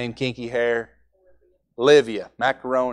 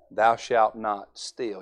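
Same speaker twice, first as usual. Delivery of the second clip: slow quoted commandment; 2 semitones lower, much slower than usual. Shown as a demonstration. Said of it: "Joe, I'm gonna say".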